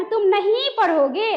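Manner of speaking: mildly angry, with weight on "नहीं"; stress on नहीं. Shown as a demonstration. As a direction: lean hard on "नहीं" as a cross teacher. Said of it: "नहीं पे बल पड़ रहा है". (गुस्से में "नहीं" पर बल)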